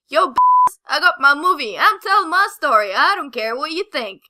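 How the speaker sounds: a light put-on street swagger; street accent. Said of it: "talking in this weird accent".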